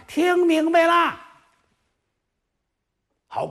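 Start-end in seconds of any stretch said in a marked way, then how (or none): 0.1-1.2 put-on high, slow drawn-out chorus of girls; coy maids' reply. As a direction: answer like giggly palace maids. Maids answer together. (宫女们拉长声音齐声回答)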